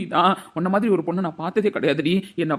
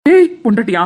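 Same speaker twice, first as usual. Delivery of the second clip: furious shout; 3 semitones higher, 10 dB louder than usual. Acted. Husband shouting at his wife, outraged. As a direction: shout it back at her, outraged.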